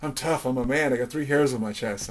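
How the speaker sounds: retold defiant bragging; tough-guy protest. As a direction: insist on toughness, playing up the bravado. Bragging back to sister's taunt.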